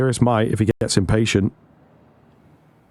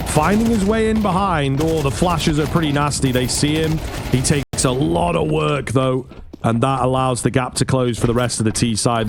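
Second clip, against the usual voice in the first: live play-by-play commentary; esports caster. Real, not acted. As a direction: call the action as it happens.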